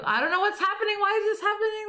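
high-pitched, baffled imitation; mock bewilderment. Reading out a friend's reaction to the movie, mock bewilderment. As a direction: imitate someone utterly lost by what they watch.

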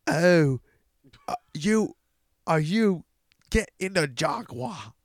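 halting, hammed-up attempt at Scottish; Scottish accent. Shown as a demonstration. Ordering someone into the Jaguar, hammed-up Scottish accent. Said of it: "I can do the best Scottish accent".

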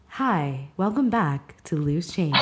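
slow, mellow show-opening welcome; calm, paced-out intro for your listeners; podcast intro voice. Shown as a demonstration. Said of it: "my intro outros tends to be more like".

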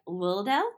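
Lildale, the middle syllable dropped; mispronounced Lilydale. Shown as a demonstration. Showing her slip on the town name, Lildale. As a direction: say Lildale, skipping the ly. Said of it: "it can sometimes come out like".

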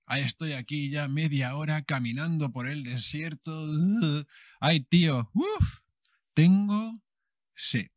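gasping, parched cry of thirst; parched desert walker. Acted. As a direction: play a man dying of thirst in the desert.

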